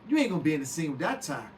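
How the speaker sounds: Eddie scolding. Retold or imitated. Eddie quarrels over the tie.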